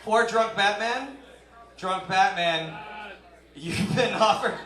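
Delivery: mock announcer. Real, not acted. Announcing to Batman in crowd.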